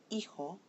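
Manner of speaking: HI stressed in hijo; penultimate-syllable stress. Shown as a demonstration. Teacher shows students this word, hijo, stressed on HI. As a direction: say hijo with the weight on its first syllable, HI. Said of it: "the second to the last syllable takes the stress".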